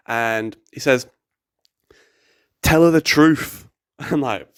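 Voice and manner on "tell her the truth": slow, higher retold reply; measured, raised-pitch quote; deliberate advice. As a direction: spell it out slowly as the friend. Friend's advice acted out.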